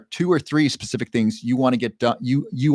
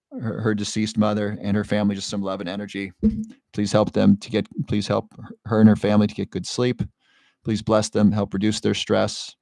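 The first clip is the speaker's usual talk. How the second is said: prayer; 3 semitones lower than usual. Real, not acted. Streamer prays for a grieving viewer's family, solemn prayer. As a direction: pray gently, feeling for each phrase.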